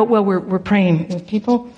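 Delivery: low, sheepish, halting reply; imitating a sheepish mumble; embarrassed admission. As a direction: admit it reluctantly, as if embarrassed. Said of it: "I was embarrassed to admit it".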